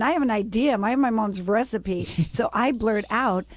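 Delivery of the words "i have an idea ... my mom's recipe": higher-pitched retold fluster, easing toward the end; mock inner panic. Founder recalling thoughts when asked her company's name, mock panic. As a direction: replay a flustered inner protest, lightly hammed-up.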